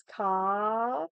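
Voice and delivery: karaoke broken into ka, ra, o, ke with pauses between; ka, ra, o, ke, each syllable set apart. Shown as a demonstration. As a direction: spell out the syllables slowly, one by one. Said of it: "there's characters".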